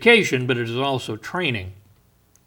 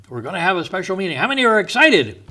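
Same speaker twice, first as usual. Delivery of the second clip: quick, higher mock enthusiasm; mocking eager crowd; 5 semitones higher, faster than usual. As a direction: ham up the hype of an eager churchgoer. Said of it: "how many times people say".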